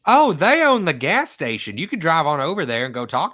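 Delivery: retelling the helpful lady who points him across the street, a hint of her sweet voice; sweet old lady, helpful. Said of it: "She's like".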